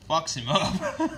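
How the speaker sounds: laughing through the words; chuckling it out slowly. Real, not acted. Laughing while describing the beating.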